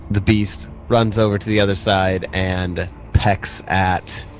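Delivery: ordinary talk, nothing marked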